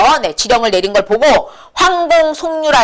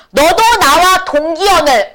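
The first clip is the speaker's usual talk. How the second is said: higher and slower, a touch of weeping; mild tearful plea; 6 semitones higher than usual. Acted. 감사가 동생 길동의 손을 잡고, 울먹이듯 높고 느리게 호소하며. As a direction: plead gently, like an older brother holding back tears. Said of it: "울면서 말합니다".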